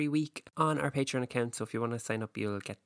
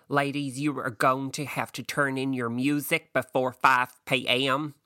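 pageant host; 3 dB louder than usual. Retold or imitated. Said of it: "I just thought".

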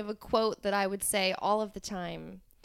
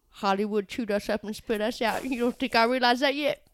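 lightly voiced small town American accent, mother; a hint of a small town accent, mournful. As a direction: imitate the small town mom's accent, heartfelt. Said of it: "this amazing small town accent".

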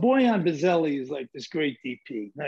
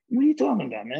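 higher and louder, taken aback; surprised retort; 4 semitones higher, 4 dB louder, much faster than usual. Retold or imitated. Answering the actor's odd idea, higher surprised disbelief. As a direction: shoot back in disbelief. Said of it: "I says".

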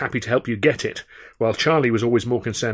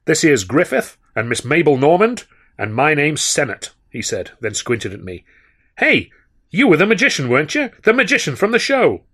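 higher, louder swaggering New Yorker; brash big talker; 5 semitones higher, 5 dB louder than usual. A narrator's reading. Sennett regaling the magician at the bar, brash and loud. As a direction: boom out tales like a saloon regular.

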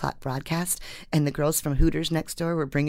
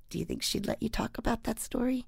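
soft, higher-pitched careful question; gentle tentative asking; 6 semitones higher, 6 dB quieter than usual. Retold or imitated. Reporter asking the weatherman about his wife's story, gentle tentative asking. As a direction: re-enact tiptoeing into a delicate request.

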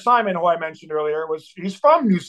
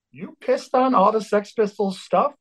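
higher-pitched imitation of amazed disbelief; incredulous question; 6 semitones higher than usual. Bandmates in the van hearing the news, incredulous. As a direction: ask as if you cannot believe it.

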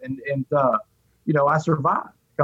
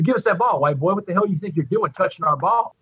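mild mock yell, pitch raised at the start; retold screaming; 3 semitones higher than usual. Angry inmates confront a newcomer over their ball, retold screaming. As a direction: imitate an angry crowd without fully shouting. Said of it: "screaming at me".

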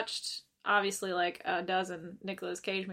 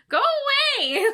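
shrieked go away, much higher and louder; 7 dB louder, slower than usual. Retold or imitated. Poster retorts to concerned Facebook friends, shrieking. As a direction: snap it at nosy commenters. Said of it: "I'm like".

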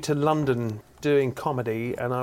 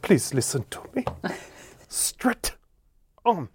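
put-on a light Nigerian accent, laughing through it; giggling Nigerian man insisting; imitating a giggling Nigerian man; 3 semitones higher than usual. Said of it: "And he went".

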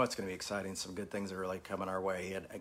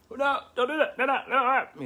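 high laughing scold; 9 dB louder than usual. Retold or imitated. Playfully scolding his jumping kids.

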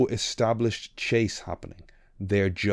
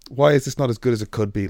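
louder and faster, exasperated; louder, faster exasperation; 6 dB louder, faster than usual. Shown as a demonstration. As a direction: repeat it louder and quicker, fed up. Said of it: "make a yawn again".

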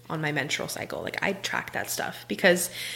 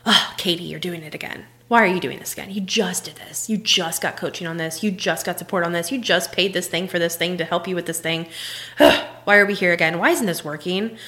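berating self-talk. Retold or imitated. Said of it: "we berate ourselves".

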